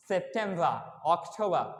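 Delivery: "সেপ্টেম্বর" and "অক্টোবর" ending in open ah; non-rhotic "সেপ্টেম্বর, অক্টোবর"; silent final R. Shown as a demonstration. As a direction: drop the last r in "সেপ্টেম্বর, অক্টোবর". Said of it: "আরকে totally pronounce করা হয় না".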